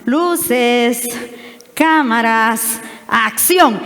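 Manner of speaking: slow, punchy showbiz call; mock director call. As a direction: call it out like starting a film shoot. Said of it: "Entonces hacíamos así".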